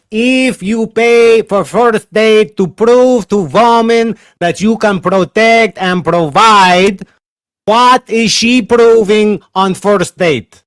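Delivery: very slow, loud, spelled-out question; slow over-enunciated. Shown as a demonstration. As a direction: spell it out slowly, like to a foreigner. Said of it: "Okay, I, I translate for you".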